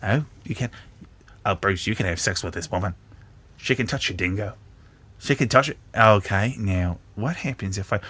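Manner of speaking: a bad put-on Australian accent, half under the breath; shitty Australian accent. Reviewer playing the game to his mate Bruce, in a shitty Australian accent. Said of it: "I gotta do a shitty Australian accent".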